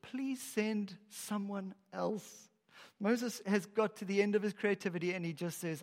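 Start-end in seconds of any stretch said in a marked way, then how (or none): 0.0-2.5 slow, soft, pleading whisper of a request; plead, almost giving up; meek plea. Acted. Moses meekly begging God, slow and soft. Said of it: "He has nothing left except".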